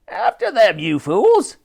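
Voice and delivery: angry snarled order; Barker. A narrator's reading. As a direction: snarl it at useless underlings. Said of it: "snarled Barker".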